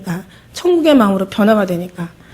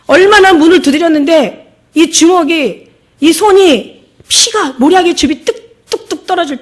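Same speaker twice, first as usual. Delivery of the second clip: slow, higher, louder preaching cry; fervent preaching; 6 semitones higher, 6 dB louder than usual. Acted. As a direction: drag each word out in anguish. Preaching at full force.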